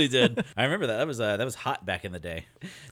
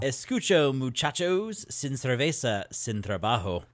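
bad Spanish accent; slower than usual.

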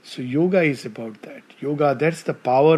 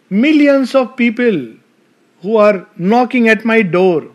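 fervent louder declaration; passionate proclaiming; 6 semitones higher, 7 dB louder than usual. Acted. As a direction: proclaim it like a calling. Passionate recounting of letter.

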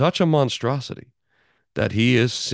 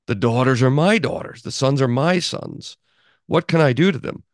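mocking Laban, a bit louder and higher; sarcastic; 3 semitones higher, 4 dB louder than usual. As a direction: read it with a sneer of sarcasm. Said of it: "a little bit of sarcasm in Luther's voice".

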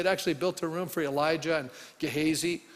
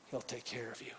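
tender; 8 semitones lower, 17 dB quieter than usual. Real, not acted. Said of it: "I wrote in my little journal".

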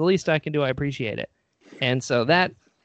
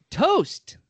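star's greeting; 12 semitones higher than usual. Retold or imitated.

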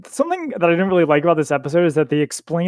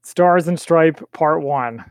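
dramatic announcer; much slower than usual. Acted. Dramatic title read.

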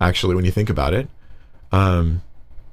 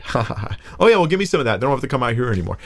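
mocking; 3 semitones higher, faster than usual. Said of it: "she's actually responding in a mocking way".

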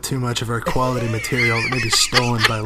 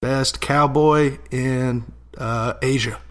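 John Wayne; slower than usual. Acted. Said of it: "John Wayne played Genghis Khan".

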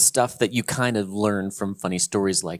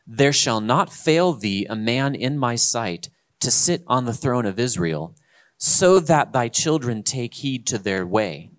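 slow, louder King James reading, each clause weighed; scripture reading; 4 dB louder than usual. Acted. Pastor reads Solomon's prayer to listeners, solemn and slow. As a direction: read the old Bible words with solemn weight.

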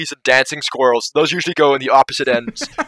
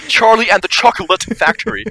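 mocking imitation; 7 semitones higher than usual. Co-host teasing how the film title was said, mock imitation. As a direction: parrot the title back, pitched up and teasing. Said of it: "Why do you say it like that?".

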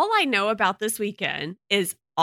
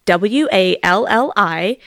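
spelled out slowly; slower than usual. Shown as a demonstration. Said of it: "That's Wally".

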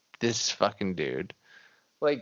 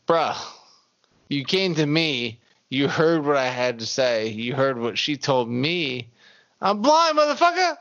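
builds to a loud much higher yell on the blind line; exasperated yell; 4 semitones higher, 4 dB louder than usual. Retold or imitated. Blind George losing patience with Cliff, climbing to a high yell. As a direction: blow up at him by the end.

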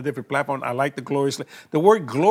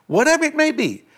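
earnest spoken prayer to Father. Acted. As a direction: pray boldly for the viewers. Leads a prayer on air.

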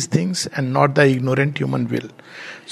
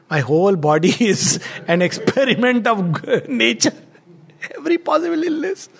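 chuckling through the words, voice rising high; laughing; 6 semitones higher than usual. Retold or imitated. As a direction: laugh as you tell your own illnesses. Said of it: "Nishikanto laughs and says".

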